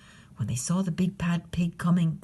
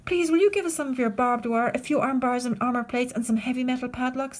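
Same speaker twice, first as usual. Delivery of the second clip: little wolves asking; 4 semitones higher than usual. Acted. Wolves ask rhinoceros.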